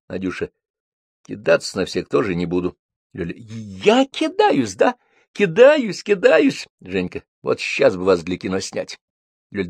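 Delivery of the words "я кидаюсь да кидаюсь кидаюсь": indignant. Acted. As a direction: fire it back, stung. Ссора Лёли с Надюшей. (возмущённо, на высоких тонах)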